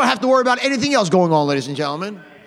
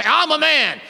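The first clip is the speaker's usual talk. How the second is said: raised-pitch imitation of a raging fool; mock angry bluster; 4 semitones higher, slower than usual. Preacher imitating a fool who stomps and breaks things, mock rage. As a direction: put on a fool's angry rant. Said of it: "rage and get angry and raise their voice".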